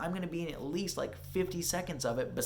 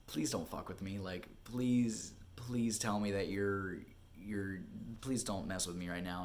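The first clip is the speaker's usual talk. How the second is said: lower, softer mild plea; hushed pleading; 5 semitones lower, 6 dB quieter than usual. Retold or imitated. Actor begging the agent not to joke, hushed pleading. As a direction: beg under your voice, holding back hope.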